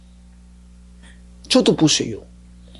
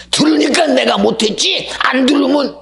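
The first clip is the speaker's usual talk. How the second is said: louder, higher indignant protest; imitated angry excuse; defensive outburst; 10 semitones higher, 6 dB louder than usual. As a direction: insist it was his fault. The deacon's excuse repeated.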